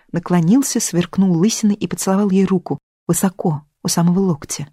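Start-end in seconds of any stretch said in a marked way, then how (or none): none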